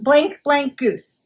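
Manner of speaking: slow, spaced blank, blank; slow deliberate. Shown as a demonstration. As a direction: drag out each blank. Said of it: "slowed clue for duck duck goose".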